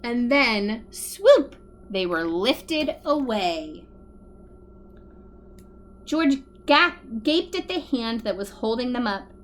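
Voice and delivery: put-on lively read-aloud for children; animated story narration with bouncy rhythm; storybook reading. A narrator's reading. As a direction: tell it to a room of little kids. Reads picture book aloud to kids.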